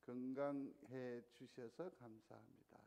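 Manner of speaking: slow, gentle thanks to a neighbour; gentle greeting. Shown as a demonstration. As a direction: say it kindly to the person beside you. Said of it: "한번 돌아보시면서". (천천히 따뜻하게 건네는 감사)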